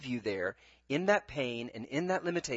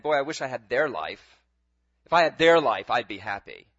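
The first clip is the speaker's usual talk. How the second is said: mock grumbling; 3 semitones lower, 8 dB louder than usual. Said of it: "looking over at somebody else's life and saying".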